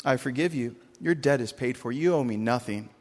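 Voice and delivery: forgiving king. Retold or imitated. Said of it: "He says".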